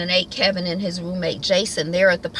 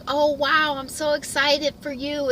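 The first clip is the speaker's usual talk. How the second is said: forced excitement; 8 semitones higher than usual. Retold or imitated. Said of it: "he's trying to be excited".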